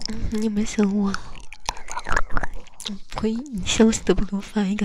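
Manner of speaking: whisper. Acted. Teasing lover whispers close.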